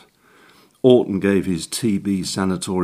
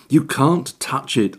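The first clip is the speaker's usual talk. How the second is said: sharp higher warning bark; 6 semitones higher than usual. A narrator's reading. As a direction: snap it out to stop him. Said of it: "I barked".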